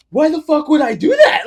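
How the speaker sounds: high, loud retold cry of dismay; hammed-up horrified yell; appalled at himself. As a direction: imitate a friend shouting in guilty disbelief. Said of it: "he felt bad".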